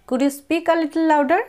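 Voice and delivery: slow, careful model sentence; slow model phrase. Shown as a demonstration. Teacher modelling an English phrase slowly. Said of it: "ইংরেজিতে এইভাবে বলা যায়".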